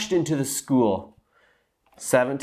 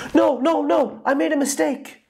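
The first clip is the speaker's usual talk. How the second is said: high, rushed goose voice backpedalling; teacher frantically fixing his slip; hurried correction. A narrator's reading. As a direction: take it back in a panic. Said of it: "as fast as he could".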